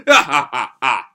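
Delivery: mock screams. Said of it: "scream out".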